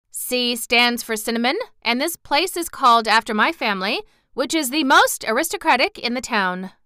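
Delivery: lightly voiced pompous town dignitary; self-important bun man, indignant. Bun man protesting to the hungry girl, mildly pompous. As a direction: lecture the intruder with some importance.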